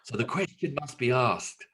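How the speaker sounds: lightly performed mock wedding speech; deliberate, long-paused comic speech building to a drawn-out question; Rowan Atkinson. Parent threatens daughter with a speech, lightly mimicked comic oratory. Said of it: "do the speech by Rowan Atkinson".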